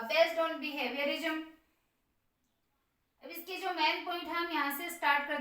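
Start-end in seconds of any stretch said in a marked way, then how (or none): 0.0-1.4 words stretched out very slowly; slow dictation. Shown as a demonstration. Teacher dictating a heading to students, very slow. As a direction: spell it out slowly for note-taking. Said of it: "वो लिख देते हैं".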